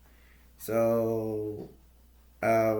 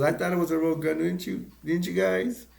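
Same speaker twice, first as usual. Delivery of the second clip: acted-out questions, pitched higher; retold joking protest; 7 semitones higher, 3 dB louder than usual. Clark asks his family about the gun, higher retold voice. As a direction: lightly imitate a dad seeking agreement. Clark jokes after surviving shot.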